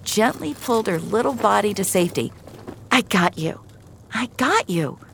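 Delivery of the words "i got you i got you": a touch of reassurance, lightly raised pitch; consoling. Acted. Rescuer to the girl she pulled out, consoling. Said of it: "said in her most consoling voice".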